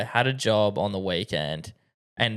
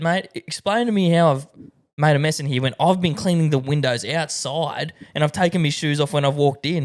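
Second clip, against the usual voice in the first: retold protest, a touch higher; mildly indignant retort; 4 semitones higher than usual. Window cleaner to accusing homeowner, mildly indignant retort. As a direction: push back in mild exasperation.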